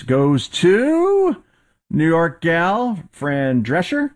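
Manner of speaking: high, slow, drawn-out New York Nanny voice; Fran Drescher impression. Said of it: "embraced that accent".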